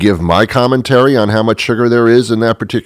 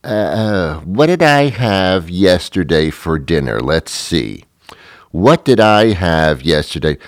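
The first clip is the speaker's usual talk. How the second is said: stalling ponderer; 4 semitones lower than usual. Retold or imitated. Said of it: "And she'll say".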